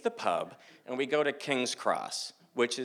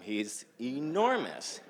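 drawn-out "enormous", pitch swooping up; awed emphasis; much slower than usual. Retold or imitated. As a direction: stretch "enormous" slowly in awe. Awed remark about huge man.

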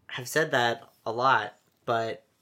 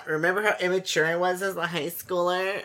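laughing; 6 semitones higher, 5 dB louder than usual. Real, not acted. Laughing self-mockery.

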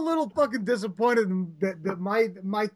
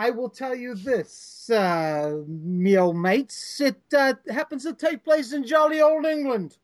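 put-on British accent; 2 semitones higher than usual. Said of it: "I almost said good day".

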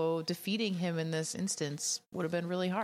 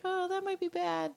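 mock worried crew; 12 semitones higher than usual. Crew voiced realizing danger.

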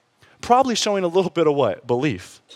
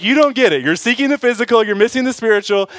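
higher, louder, blunt correction; direct Jesus; 7 semitones higher, 4 dB louder than usual. Acted. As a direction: set him straight, firm and direct. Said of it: "Jesus is like".

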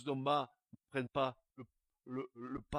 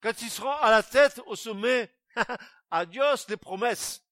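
mocking laugh; 7 semitones higher, 12 dB louder than usual. Real, not acted. Mocking politicians' promises.

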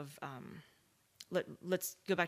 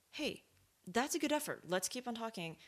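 higher-pitched, friendly encouragement; encouraging; 6 semitones higher than usual. Acted. English speaker to a struggling French newcomer, encouraging. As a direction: cheer on their effort in a higher voice. Acting a supportive response to a newcomer.

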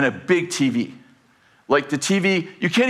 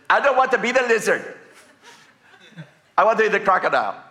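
put-on higher, pleading small child; little boy's voice; 5 semitones higher, faster than usual. Grandson asking grandpa to change roles, small child's plea. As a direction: play a small boy asking to switch. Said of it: "I hear this little voice".

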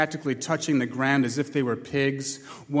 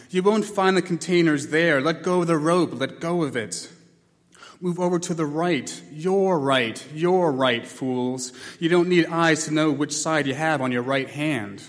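bellowing sergeant; 2 semitones higher than usual. Acted. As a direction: yell at the blind like a drill sergeant. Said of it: "the sergeant bellowed at them".

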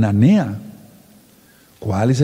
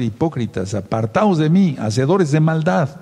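stern judge's rebuke; 4 semitones higher than usual. Acted. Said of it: "El Eterno va a decir".

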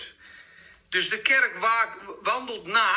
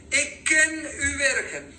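slow raised reading voice; scripture reading; 7 semitones higher, slower than usual. Acted. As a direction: read it out slowly and high. Reading the letter aloud.

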